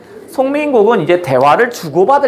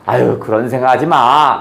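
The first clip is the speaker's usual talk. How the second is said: gently consoling, a little lower; 4 semitones lower than usual. Acted. The sky fairy comforting the exiled fairy, gently consoling. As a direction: soothe her sad friend kindly. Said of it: "나름대로 위로를 해줍니다".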